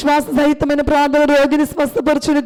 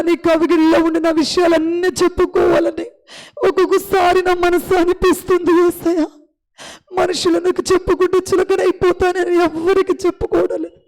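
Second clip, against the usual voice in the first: fervent prayer. Acted. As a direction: pour out the need before God. Long prayer voiced for childless mother. (వేడుకునే ప్రార్థన స్వరం)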